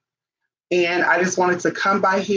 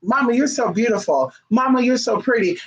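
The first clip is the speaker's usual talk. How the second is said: lightly voiced child, a touch higher; imitating a child; 5 semitones higher than usual. Child praising mama's looks, lightly voiced kid. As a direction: gush sweetly like a little kid. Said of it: "kids do this".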